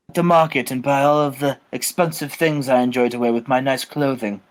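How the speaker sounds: lightly put-on English gentleman; a hint of English gentility; Steven Regal. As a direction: muse idly in a mild English accent. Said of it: "He's like".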